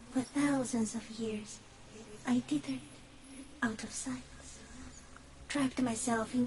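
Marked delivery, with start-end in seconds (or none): 2.3-4.2 whisper. Acted. Phasmid speaking from hiding.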